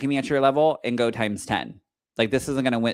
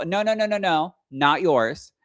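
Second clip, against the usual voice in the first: urgent no; 7 semitones higher, 3 dB louder than usual. Retold or imitated. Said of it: "And I go".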